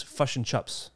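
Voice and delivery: kiwi vowels, fush and chups; broad New Zealand accent. Retold or imitated. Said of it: "and one is fush and chups".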